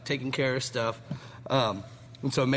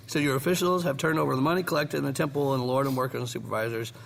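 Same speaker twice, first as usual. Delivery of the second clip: rushed words through a burning mouth; mouth on fire; faster than usual. Real, not acted. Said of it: "while my mouth is on fire".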